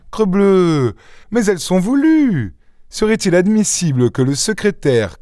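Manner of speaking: très aigu, jubilant; s'écrier avec un enthousiasme amusé; exclamation vive. Acted. Lupin s'exclame, amusé et triomphant. (Lupin s'enflamme devant l'évidence)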